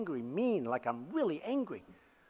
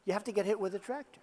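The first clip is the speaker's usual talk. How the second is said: faster, "hit" stressed and rising; quick aside; 3 dB quieter, faster than usual. Shown as a demonstration. Speaker repeats the joke to the crowd, quickly.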